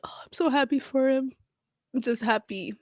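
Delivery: whispered and breathless with joy; happy whisper. Real, not acted. A moved fan whispers her joy for Johnny. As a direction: whisper it, overcome.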